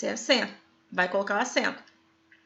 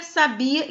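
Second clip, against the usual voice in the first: "sabia" with the stress on BI; stress on middle syllable. Shown as a demonstration. Teacher contrasting lookalike words, "sabia" stressed on BI. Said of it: "diferença é a sílaba tônica".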